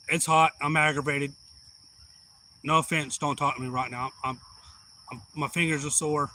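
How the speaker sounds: loud, testy complaint at the boss; irritable snap. Retold or imitated. Hot, bleeding worker snaps loudly at his boss.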